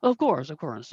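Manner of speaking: lightly put-on Korat accent; obliging groomer with a fake Korat accent; Mister Meow. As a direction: call an employee in a bad Korat accent. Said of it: "very thick, um, Korat accent".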